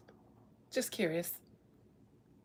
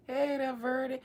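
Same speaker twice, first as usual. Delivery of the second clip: put-on old lady voice; 4 semitones higher than usual. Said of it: "bust out in an old lady voice".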